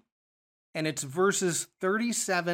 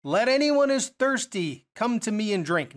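raised, higher voice calling out an invitation; loud proclamation; 4 semitones higher, 3 dB louder than usual. Acted. Jesus calling out to the festival crowd at the temple, mildly loud proclamation. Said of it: "says in a loud voice".

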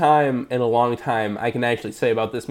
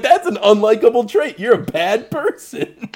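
scolding; 8 semitones higher than usual. Retold or imitated. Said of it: "And I'm like".

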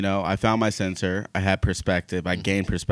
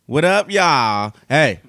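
excited; 5 semitones higher, 5 dB louder, slower than usual. Real, not acted. Hyped entrance.

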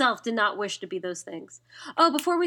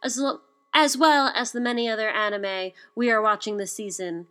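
announcer outro. Acted. Podcast outro read.

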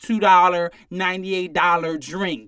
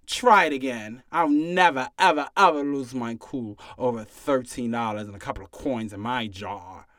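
mock calm; 6 semitones lower than usual. Mock calm vow, dropping low.

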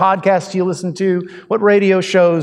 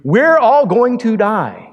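slow, hammed-up alarm, higher; mock doom; 5 semitones higher, 3 dB louder, slower than usual. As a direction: drag it out like a doom-mongering TV host. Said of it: "what those shows are about is about telling you".

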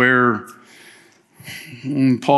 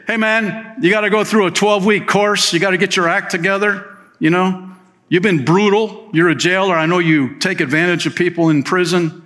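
higher, preachy scolding; mock lecture; 6 semitones higher than usual. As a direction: wag the finger, half joking.

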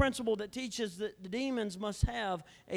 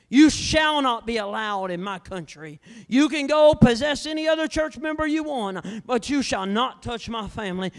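commanding rebuke; 8 dB louder than usual. Acted. Commanding the devil off his family.

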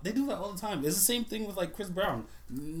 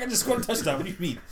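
imitating a player; 4 semitones higher, 4 dB louder, faster than usual. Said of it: "He's like".

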